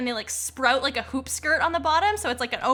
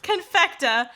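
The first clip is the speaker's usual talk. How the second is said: mock sponsor announcer; 4 semitones higher, 4 dB louder than usual. Player jokes that Confecta has sponsors, mock announcer. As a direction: announce it big, close to laughing.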